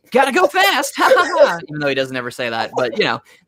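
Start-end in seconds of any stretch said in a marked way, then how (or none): 0.1-1.6 exaggerated cartoon hero caricature voice, pitched way up. Describing how Jason played the role for most of his career: Sonic voice. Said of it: "that kind of voice, like it was like a caricature voice".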